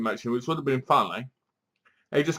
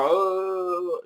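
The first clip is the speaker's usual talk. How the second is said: long drawn-out higher "oh"; mock "oh"; 5 semitones higher than usual. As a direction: mimic his drawn-out cry. Imitates the bloke in the film.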